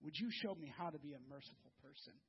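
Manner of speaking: friend's quiet prayer for mercy, hushed. Retold or imitated. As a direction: pray it softly, humbly. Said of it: "and he has said".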